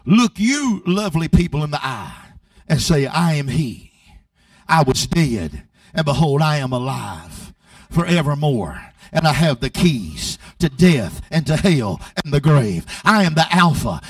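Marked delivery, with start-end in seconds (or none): 3.1-14.0 voice of Jesus. Retold or imitated. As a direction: speak as the risen Christ. Preacher voices Jesus speaking.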